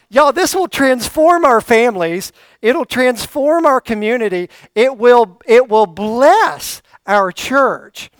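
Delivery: swelling sermon crescendo, slowing on bless; rising preaching fervor. Real, not acted. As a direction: preach it out to the congregation, climbing. Preaching climax.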